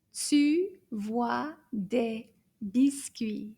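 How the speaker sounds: whispered, very slow sentence; hushed, drawn-out model. Shown as a demonstration. Teacher whispers the sentence slowly to the children.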